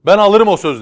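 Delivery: high, loud call over the crowd; calling from afar. Acted. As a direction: shout it from across the square. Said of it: "demiş uzaktan".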